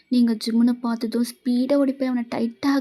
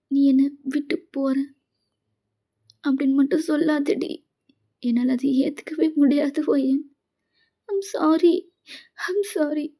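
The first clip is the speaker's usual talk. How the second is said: tearful apology; 3 semitones higher than usual. Acted. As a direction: sob out the sorry, pleading. Wife crying, apologising to husband.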